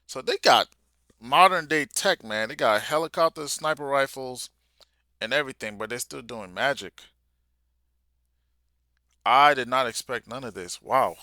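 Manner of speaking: really hyped and blown away; amazed outburst. Real, not acted. Reader shocked by helicopters in a magic story, loud amazed rant.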